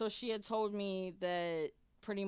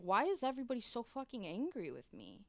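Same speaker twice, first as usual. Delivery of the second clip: exasperated; 6 semitones higher than usual. Retold or imitated. Retold exasperated question to staff.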